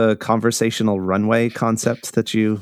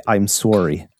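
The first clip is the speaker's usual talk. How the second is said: "sorry" said Canadian-style as "sore-y"; Canadian accent. Shown as a demonstration. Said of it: "It's my Canadian accent".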